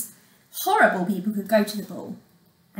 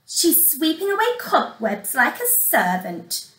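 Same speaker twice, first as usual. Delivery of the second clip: higher, sneering stepsister; a touch of a mocking sneer; 5 semitones higher than usual. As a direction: say it with scorn. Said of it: "sneered Grimella".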